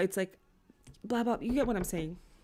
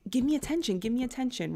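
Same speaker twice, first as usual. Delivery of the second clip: whiny, pleading give-me-attention voice, pitched up; mock needy demand; 5 semitones higher, 3 dB louder than usual. Girlfriend mocking her own clingy demand, pitched up. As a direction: beg for attention like a clingy partner.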